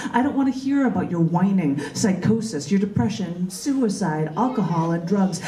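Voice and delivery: rhythmic spoken-word poem, building to fervent declaiming; poem performance. Acted. Poet reading his poem to a live audience, rising fervour. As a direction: perform it like a slam poet rallying a crowd. Reads own poem aloud.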